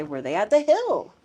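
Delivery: Were they at the hill? stressed on hill; teacher model. Shown as a demonstration. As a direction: model the question, leaning on hill. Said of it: "You could say".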